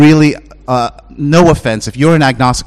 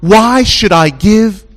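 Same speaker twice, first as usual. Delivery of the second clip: grudging giver; 7 semitones higher, 3 dB louder, much slower than usual. Retold or imitated. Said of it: "you're gonna ask yourself".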